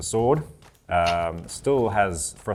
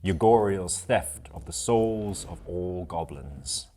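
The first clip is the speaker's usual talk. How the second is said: game master's recap. Acted. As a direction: recount the heroes' saga with deliberate pauses. Game master recaps previous episode.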